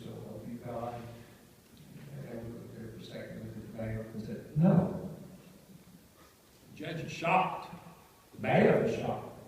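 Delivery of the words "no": loud flat "No"; a blunt retold refusal; firm refusal. Elder answers the judge's oath, loud and firm.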